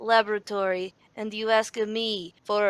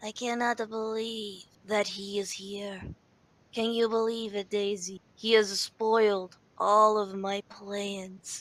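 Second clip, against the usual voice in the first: tiny little bunny voice; 4 dB quieter than usual. Game master voicing a voice the players hear as they come downstairs, small little voice. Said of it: "you hear this little voice saying".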